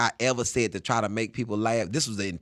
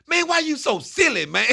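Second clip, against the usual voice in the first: high and loud, breaking into laughter; an old lifer finally cracks up, laughing loudly; 7 dB louder than usual. Retold or imitated. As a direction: laugh it out while calling him silly. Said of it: "he just bust out like".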